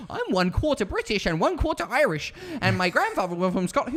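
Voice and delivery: high-pitched mock bragging voice; mimicking a heritage show-off; mocking boast. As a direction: parrot them in a high, sing-song mocking whine.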